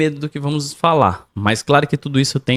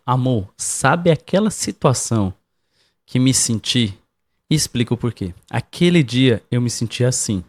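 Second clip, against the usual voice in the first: calm tone; 3 semitones lower than usual. Shown as a demonstration. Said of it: "evita até o tom de voz".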